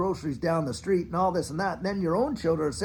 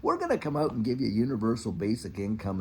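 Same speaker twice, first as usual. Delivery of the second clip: mock superior tone; 6 semitones lower than usual. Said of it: "they have this attitude that they're so superior".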